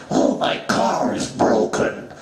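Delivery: mock-whining complaint, slowing on the sink; whiny human. God mocking complaining humans in a whiny voice. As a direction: lightly mimic a whining human. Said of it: "you complain a lot".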